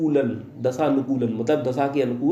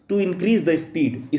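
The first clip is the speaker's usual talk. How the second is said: slow dictation; 2 semitones higher, much slower than usual. Shown as a demonstration. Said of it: "teacher dictates the definition".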